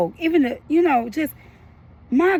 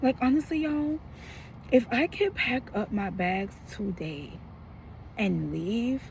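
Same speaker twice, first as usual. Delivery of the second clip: softer, weary and anxious, trailing to near nothing; worried, fading; 5 dB quieter than usual. Real, not acted. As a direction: let the worry make you quieter. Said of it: "And I'm so worried".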